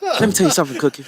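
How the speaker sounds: laughing Terrence impression. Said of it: "And power".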